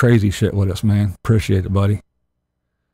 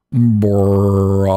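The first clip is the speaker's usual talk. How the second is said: burping the words; 2 semitones lower than usual. Shown as a demonstration. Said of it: "If I say Bob slowly, it sounds like burp".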